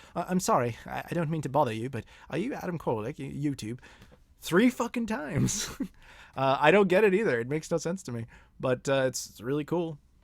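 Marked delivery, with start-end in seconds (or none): 0.2-3.7 deliberately poor, bad put-on British accent. Speaker acts out a stranger approaching him in the streets: bad British accent. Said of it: "a bad British accent".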